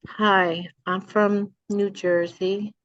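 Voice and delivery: slow, careful neutral American; failed try at a neutral accent; trying to lose the accent. Shown as a demonstration. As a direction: speak slowly, trying to hide the Jersey accent. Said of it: "I don't know if I can lose it. Let me see".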